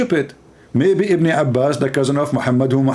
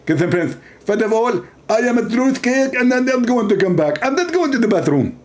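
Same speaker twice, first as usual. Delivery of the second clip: a higher, put-on smug preacher; a lightly voiced, self-satisfied preacher; mock Zakir Naik; 4 semitones higher than usual. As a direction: answer with mock certainty. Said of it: "He speak like this".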